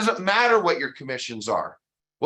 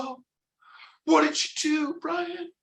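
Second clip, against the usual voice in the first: high-pitched, wide-eyed mock audience member; eager audience question; 12 semitones higher, slower than usual. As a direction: gush the question, voice shooting way up.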